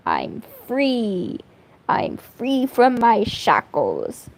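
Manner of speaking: drawn-out, playful declaration of freedom; mock liberation. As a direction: savor being free, stretching the words. Mock liberation from drawing proper noses.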